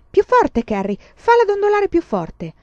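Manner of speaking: high, loud teacher's command; loud, insistent demand; harsh order. A narrator's reading. Teacher orders harder rocking.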